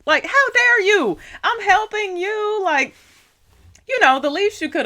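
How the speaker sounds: high-pitched, affronted outburst; indignant rebuke. Retold or imitated. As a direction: scold them in offended disbelief. Indignant imagined rebuke to cashier.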